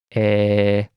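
"Eh." as an open e, mouth half open; vowel demo. Shown as a demonstration. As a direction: say "Eh." as if starting to smile. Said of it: "touching the palate and say".

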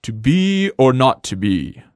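slow theatrical recitation; Shakespearean. Retold or imitated. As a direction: recite it like Hamlet on stage. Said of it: "Sounds like Shakespeare".

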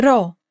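ro with a rolled front R. Shown as a demonstration. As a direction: roll the r in ro. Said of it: "is rolled".

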